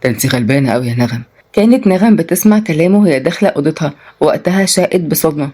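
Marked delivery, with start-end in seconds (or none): 0.0-1.2 mocking man. A narrator's reading. Selim mocking her.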